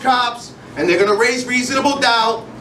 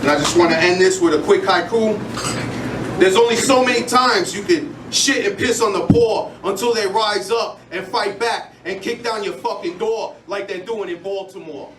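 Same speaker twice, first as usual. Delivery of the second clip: rhythmic spoken word performance; spoken word delivery with building intensity; slam poetry recital; 3 semitones lower than usual. Acted. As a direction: perform it like a slam poem on stage.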